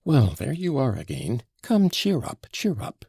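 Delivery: high, coaxing lift; persuasive. A narrator's reading. Grushenka cheering up Mitya, persuasive. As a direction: coax him to cheer up. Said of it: "said to him persuasively".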